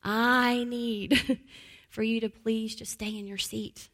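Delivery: put-on a parent gently asking a child; gentle request. Shown as a demonstration. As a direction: ask a child kindly, no pressure. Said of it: "just changing your verbiage to".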